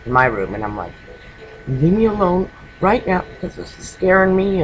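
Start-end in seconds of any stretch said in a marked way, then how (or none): 1.7-4.6 mild mock yell, pitched higher; half-shouted plea into the vent; a scared sister calling through the vent at her brother; retold yell. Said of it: "I'm yelling in the vent".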